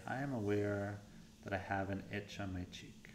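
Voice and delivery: softened, unhurried meditation guidance with long pauses; guided meditation. Real, not acted. Coach leading listeners through warm-up scans, guided meditation voice. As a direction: ease them through the exercise, quietly.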